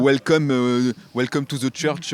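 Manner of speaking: exaggerated French-accented English; English with a thick, clumsy French accent; ugly French accent. Shown as a demonstration. Showing a friend how bad English could sound, heavy French accent. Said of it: "ultra moche comme, euh, comme accent".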